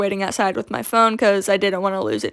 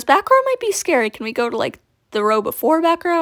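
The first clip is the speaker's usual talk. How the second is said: put-on much higher, a touch of worried little girl; mock nervous kid; 6 semitones higher than usual. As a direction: sound lightly scared of the back row. Girl fears back row.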